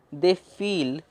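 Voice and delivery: very slow, word by word; slow reading. Shown as a demonstration. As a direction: read it out slowly. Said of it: "देखिए ready में क्या है". (धीरे-धीरे पढ़ना)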